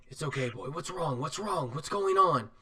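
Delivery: softly voiced concern; reassuring. Vigilwreath grabs the breathless boy, mildly reassuring.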